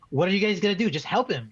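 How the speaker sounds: half-shouted replay of yelling at players; retold yell. Fan replaying their yelling at the screen, mild exasperated yell. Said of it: "I'm just yelling at the screen".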